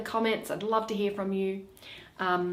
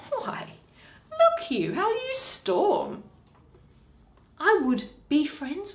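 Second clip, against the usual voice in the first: a hint of a sly moneylender, pitched higher; wheedling Shylock, lightly voiced; 5 semitones higher than usual. Shylock coaxing Antonio to be friends, lightly voiced wheedling. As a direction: coax Antonio with mock friendliness.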